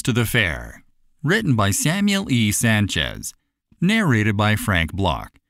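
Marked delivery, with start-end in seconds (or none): none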